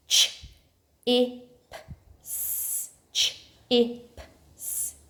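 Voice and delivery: "Ch, I, P, S" one sound at a time. Shown as a demonstration. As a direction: say each sound of "Ch, I, P, S" separately. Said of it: "Can you do your sound buttons?".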